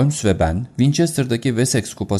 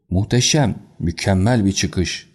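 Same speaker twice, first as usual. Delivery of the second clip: sudden cry. Acted. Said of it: "diye bağırdı aniden".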